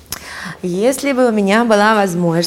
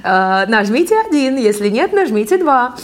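mimicking an automated phone menu; robot call voice; 4 semitones higher than usual. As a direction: read it like a recorded robocall. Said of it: "делает как робот обзвон".

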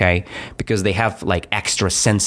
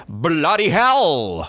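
higher, drawn-out mock shout; 5 semitones higher, slower than usual. Teacher repeating what Spaghetti shouted to Zeke, shouting. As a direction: call it out high and stretched. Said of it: "He shouted".

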